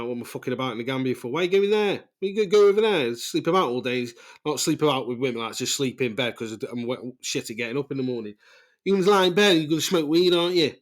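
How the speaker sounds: hammed-up nagging mother yelling; ballistic rant. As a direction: mimic mum losing it, nagging loud. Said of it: "she was going ballistic".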